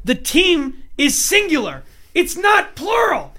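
high, slow mock insistence; imitating Leanne. To her husband about British grammar, high mock insistence. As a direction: raise the voice into a mock scold. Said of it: "She's like".

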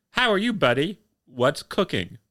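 a Brit trying out American slang; mock American accent. Watson greeting the Americans in mock American accent. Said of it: "he tries to do the American accent".

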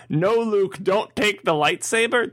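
put-on a seven-year-old begging the hero; kid pleading with the screen. Seven-year-old in the audience pleads with Luke, high and slow. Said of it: "seven-year-old kid to go".

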